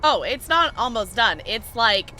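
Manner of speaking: surprised to find the siege camp not even started; surprised realization. Real, not acted. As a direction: caught off guard, loud and amused.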